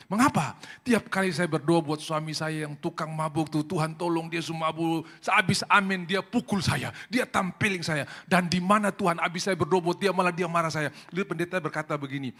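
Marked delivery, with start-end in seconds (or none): 0.1-0.6 sharp higher question; a quick, raised why; pastor asking. Retold or imitated. Pastor questioning the tired wife, sharp and higher. 0.8-10.9 high, louder aggrieved complaint; complaining wife. Retold or imitated. Wife complaining to the pastor about her drunk husband, raised and aggrieved.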